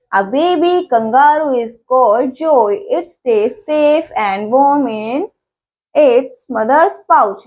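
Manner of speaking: each English word read out very slowly; slow, careful textbook reading; slow reading aloud. Shown as a demonstration. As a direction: read the fact file slowly for young learners. Reads fact file to kids.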